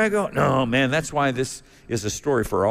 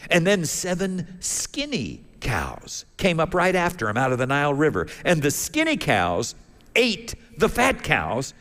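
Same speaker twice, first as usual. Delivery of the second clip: puzzled Pharaoh; 4 semitones higher than usual. Acted. Pharaoh recounts his troubling dream.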